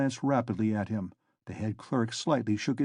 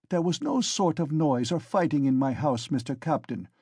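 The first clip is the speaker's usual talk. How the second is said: put-on German accent. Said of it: "though with a strong German accent".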